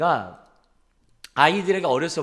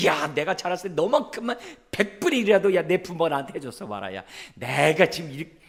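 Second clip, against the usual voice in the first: sarcastic lecture; 4 semitones higher than usual. Retold or imitated. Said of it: "이런 얘기들을 아이들에게".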